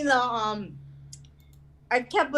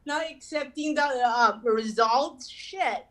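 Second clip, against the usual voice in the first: mock exasperation; 5 semitones higher than usual. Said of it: "I was like".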